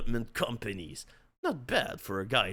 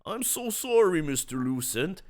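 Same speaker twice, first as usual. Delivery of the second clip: sniffling; 4 semitones higher than usual. Acted. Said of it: "they sniffled".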